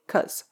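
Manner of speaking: "'cause" as a single soft 'cuz'; lazy short form. Shown as a demonstration. Teacher showing the rushed lazy form, "'cause" as 'cuz'. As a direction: drop the first syllable, just "'cause", 'cuz'. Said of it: "in a big rush or feeling lazy".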